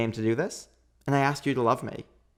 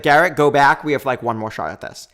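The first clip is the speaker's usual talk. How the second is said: retold yell; 5 dB louder than usual. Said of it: "So I'm yelling to him".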